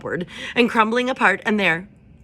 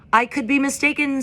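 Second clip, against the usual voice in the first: higher, louder owl addressing a crowd; hooting owl; 8 semitones higher, 6 dB louder than usual. A narrator's reading. Owl calling the meadow crowd to order, higher and louder. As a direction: hoot it out from the branch. Swooper voiced.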